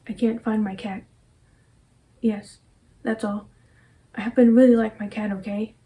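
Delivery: a touch of a hysterical woman, the cat line rushed; acted monologue. Performing her memorized monologue to camera, lightly hysterical. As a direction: play the frazzled cat owner, lightly.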